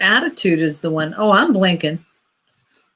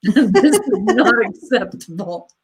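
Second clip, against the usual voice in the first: laughing; 2 semitones higher than usual. Real, not acted. Laughing at the quilt typo.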